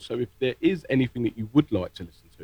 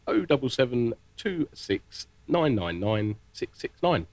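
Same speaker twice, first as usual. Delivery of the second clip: phone number in a brisker, connected run; a little quicker; slower than usual. Shown as a demonstration. Presenter repeating the phone number one more time, a little quicker. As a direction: rattle the digits off with fewer pauses. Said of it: "a little bit quicker this time".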